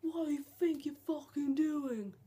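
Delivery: lightly voiced rude stranger snapping at him; a hint of an annoyed passer-by telling him off; angry stranger. White person swearing at him over a knocked bag, mildly mock angry. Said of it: "they started going".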